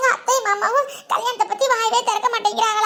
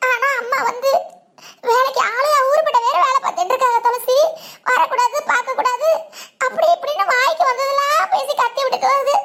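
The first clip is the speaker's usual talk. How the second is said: sobbing account of being scolded; weepy, upset retelling; tearful. Acted. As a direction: tell it through tears. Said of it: "இதுக்கெல்லாமா அழுகுவாங்க?".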